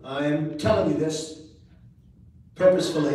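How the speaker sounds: mock-solemn dad, each word with purpose; imitating dad. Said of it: "Who talks like that?".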